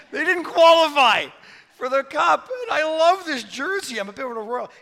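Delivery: put-on loud, high, excited Italian accent; Italian guy. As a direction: shout it like a proud Italian fan. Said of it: "Italian guy".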